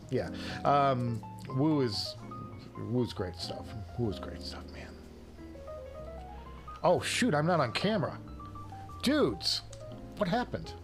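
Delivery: ordinary talk, nothing marked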